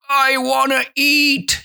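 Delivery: high-pitched, desperate plea for food; starving grasshopper. Acted. Hungry grasshopper begging the ants for food, high plea.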